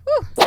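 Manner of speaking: high, loud exhale of relief; breathless whew. Real, not acted. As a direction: blow out a winded whew. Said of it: "Let me catch my breath first".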